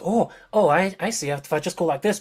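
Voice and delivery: high, excited discoverer; excited NPC voice. Acted. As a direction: voice her fumbling with the controls, delighted. GM voices NPC Adelina discovering controls.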